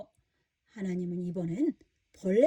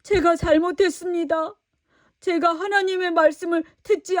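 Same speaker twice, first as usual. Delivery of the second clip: higher, louder pleading plea; Jonah pleading; 5 semitones higher, 5 dB louder than usual. Acted. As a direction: beg for forgiveness. Jonah pleads inside the fish. (높고 큰 소리로 간절히 비는 요나)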